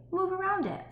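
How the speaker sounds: "around" lifted high and stretched; stress on around. Shown as a demonstration. Teacher repeats the lesson, leaning on around. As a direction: lean on "around" with a high lift. Repeats book line with emphasis.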